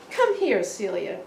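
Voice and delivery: lightly voiced father, teasingly inviting; loving invitation. Shaving father inviting his daughter, fond and teasing. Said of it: "loving invitation".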